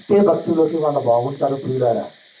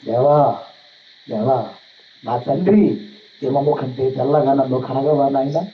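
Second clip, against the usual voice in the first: weeping prayer. Shown as a demonstration. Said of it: "ఇలా ఏడవాలండి".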